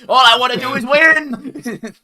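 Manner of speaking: mock tryhard yell. Mocking a friend who only cares about winning, hammed-up. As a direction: drag it out like a sore winner. Mocking a win-obsessed player.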